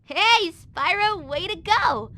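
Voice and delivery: high, loud, slow call of cheer; stretched-out hey, then proud praise; excited praise. Acted. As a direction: cheer him from across the field. Calling out congratulations.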